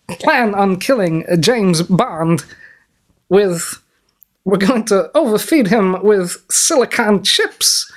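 a lightly voiced scheming Bond villain, slow and gloating; half-hearted evil mastermind laying out his plan, slow; villain impression. Villain gloating to his henchmen about his plan, mild mock menace.

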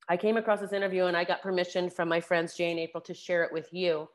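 hoarse from a sore throat; gruff voice. Real, not acted. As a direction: talk through a scratchy, gruff throat. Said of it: "I have a little bit of a gruff voice".

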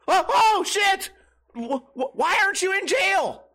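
high, loud astonished outburst; shocked disbelief. Acted. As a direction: blurt it out in high-pitched disbelief. Mock outrage at a bar stranger.

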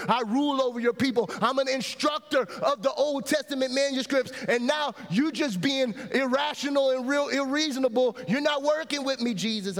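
exasperated scholar building up his case; indignant pleading that gradually climbs; frustrated Nicodemus. Acted. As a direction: protest with mounting frustration. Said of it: "I think he's frustrated".

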